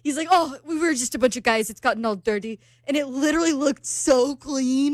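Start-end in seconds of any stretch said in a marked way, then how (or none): 0.3-2.6 lightly imitated Argentinian accent. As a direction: quote him with a hint of an Argentinian accent. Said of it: "You love her Argentinian accent".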